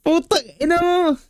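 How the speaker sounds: high squealing laugh through the words; cracking up, barely getting words out. Real, not acted. Judge cracks up at punchline.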